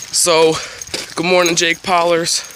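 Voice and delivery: a hint of Jake Paul's hyped intro; imitating Jake Paul. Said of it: "who's all, like".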